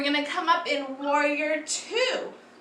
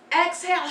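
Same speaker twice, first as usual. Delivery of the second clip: loud open-mouthed exhale, tongue out; lion's breath exhale; 4 semitones higher, much faster than usual. Shown as a demonstration. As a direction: roar the breath out like a lion. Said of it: "exhale loud like this".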